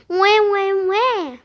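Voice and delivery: imitated piglet "wah, wah, wah"; pig squeal. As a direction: cry out like a story-time piglet. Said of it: "went Marvin".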